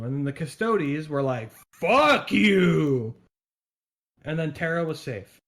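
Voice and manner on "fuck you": louder and higher, a blunt jeer; hammed-up, loud fuck you; mock defiant retort. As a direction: toss it back like a rowdy chorus. Custodes answering Magnus.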